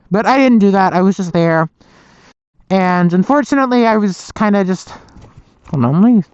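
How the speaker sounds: speaking through a tight ski mask; words pressed by a mask over the mouth; muffled by a ski mask. Real, not acted. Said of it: "It's not crushing my mouth as much anymore while I talk".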